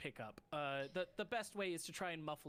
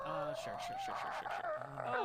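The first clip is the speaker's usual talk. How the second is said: very high, flustered sure; flustered character squeaking agreement; squeaky nervous; 4 dB louder than usual. Acted. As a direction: squeak it out in panic.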